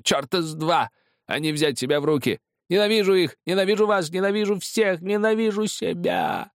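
hysterical, high-pitched hateful screaming; furious roar. A narrator's reading. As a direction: scream hatred, drawing out the end. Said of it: "взревел Кестер, размахивая пистолетом". (истошный яростный крик)

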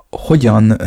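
hogyan breathed out as a whisper. A narrator's reading. The girl, too flustered to finish, whispers. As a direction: let the word die away in a whisper. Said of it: "képtelen volt befejezni a mondatát".

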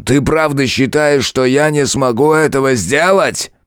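громче, медленно, с нарастающей яростью; заорать на неё; крик. A narrator's reading. Король угрожает в ярости. (король в ярости кричит)

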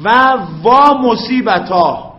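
واااا کشیده و آهسته با ناله; ندبه کشیده. Shown as a demonstration. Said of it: "برای خاطر که دراز بشه دیگه". (ندبه با «وا»ی کشیده و بلند)

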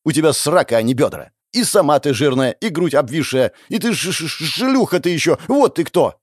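stammering insult. Acted. Relisa insults the blonde furiously.

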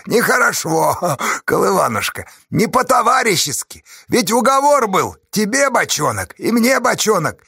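high, loud mock indignation; wheedling, high-pitched complaint; reproachful shouting. A narrator's reading. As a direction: scold him theatrically at the top of the voice. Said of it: "укоризненно закричал Чупря".

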